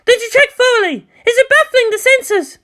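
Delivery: high, loud pressing questions; urgent commander. Acted. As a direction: demand an answer fast. Commander pressing her technician.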